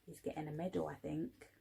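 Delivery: soft confiding aside; quiet aside. Real, not acted.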